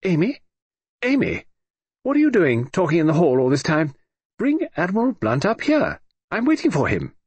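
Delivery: put-on high, commanding old lady calling down; imperious. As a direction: summon her imperiously from upstairs. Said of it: "an imperious voice sounded".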